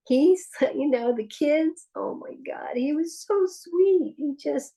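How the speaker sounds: high, loud laughing delight; laughing and gushing. Real, not acted. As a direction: laugh while raving about him. Gushing about her sweet son.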